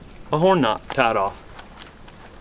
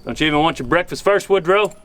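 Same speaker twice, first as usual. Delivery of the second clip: Lonesome Dove quote; 3 semitones higher than usual. Retold or imitated. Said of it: "a Lonesome Dove quote".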